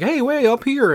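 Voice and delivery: high cheerful call from above; lightly voiced high cartoon host; cartoon character. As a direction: call down like a jolly bug host. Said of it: "he's like".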